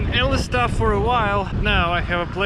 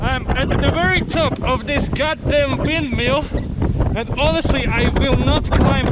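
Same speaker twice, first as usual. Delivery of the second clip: raised voice against strong wind; shouting over wind. Real, not acted. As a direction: call it out over the gusts. Atop windmill in strong wind.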